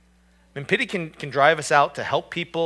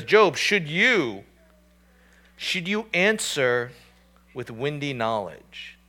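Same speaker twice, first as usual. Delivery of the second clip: mocking; slower than usual. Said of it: "they begin to mock him".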